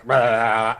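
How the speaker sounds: acted roar of effort; a drawn-out straining "rah"; mock growl while being stretched. Acts out being stretched by rope.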